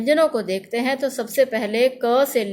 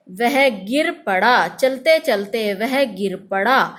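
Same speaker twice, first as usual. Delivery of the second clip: slow, careful example sentence; slow demo sentence; slower than usual. Shown as a demonstration. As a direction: stretch out वह गिर पड़ा so पड़ा is heard clearly. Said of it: "इसका उच्चारण थोड़ा हल्का होता है". (धीरे-धीरे, साफ़ उदाहरण वाक्य)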